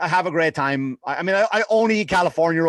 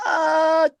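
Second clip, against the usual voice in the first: a high, strained "uh, yeah"; awkward yes; 10 semitones higher than usual. Retold or imitated. Telling friends about the sushi waiter's box offer, a high strained yes. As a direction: squeeze it out, caught off guard. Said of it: "And I go".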